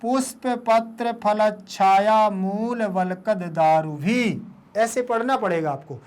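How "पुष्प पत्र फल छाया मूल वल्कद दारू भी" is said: words joined together. Shown as a demonstration. Teacher shows pupils the whole line, words joined. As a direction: run the words together without gaps. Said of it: "फिर इसको देखो ऐसे पढ़ेंगे".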